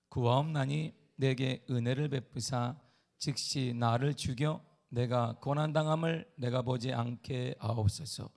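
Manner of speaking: slow, measured Bible reading; solemn scripture reading. Acted. Pastor reading Ezekiel to the church, slow and solemn. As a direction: read each word with weight.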